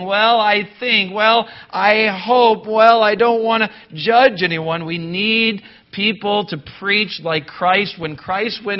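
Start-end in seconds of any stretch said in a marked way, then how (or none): 0.0-4.8 higher, louder mock dithering, dragged out; mock flimsy preacher. Preacher mocking timid pulpit colleagues who won't judge, wishy-washy imitation. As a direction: exaggerate each hedge, stretching "hope". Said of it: "flimsy little preachers behind the pulpit saying".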